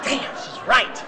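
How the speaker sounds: slow, high laughing admission; rueful laugh. Real, not acted. Storyteller admitting to the audience his wife was right, laughing. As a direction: concede it through a laugh.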